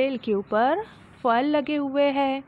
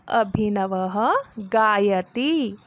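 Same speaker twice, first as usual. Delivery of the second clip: slow model reading; much slower than usual. Shown as a demonstration. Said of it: "teacher reads Sanskrit slowly".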